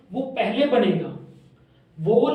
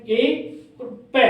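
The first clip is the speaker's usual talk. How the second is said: ए and प said slowly apart; slow teaching split of two sounds; 3 semitones higher, much slower than usual. Shown as a demonstration. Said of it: "इसमें दो sound आ रही है".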